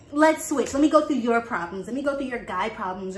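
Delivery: loud mocking challenge; sarcastic loud rant. Real, not acted. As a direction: throw the offer back at her.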